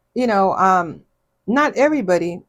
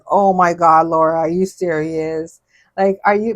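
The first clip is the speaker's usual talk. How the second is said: louder, shocked Oh my God; mock shocked outburst; 5 dB louder than usual. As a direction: play the sister-in-law's outraged disbelief. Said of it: "she kinda like".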